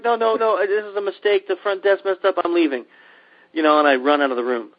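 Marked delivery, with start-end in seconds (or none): 0.0-2.8 hammed-up frantic apology. Frantic apology leaving room.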